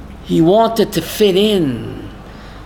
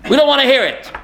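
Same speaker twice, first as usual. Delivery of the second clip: higher-pitched mock crowd protest; mock heckling; retold shouting down; 5 semitones higher, faster than usual. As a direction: imitate hecklers shouting him down, not at full volume. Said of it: "They shout him down".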